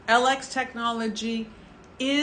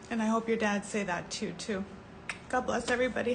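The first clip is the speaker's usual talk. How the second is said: still teary; 7 dB quieter, faster than usual. Real, not acted. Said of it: "I get emotional".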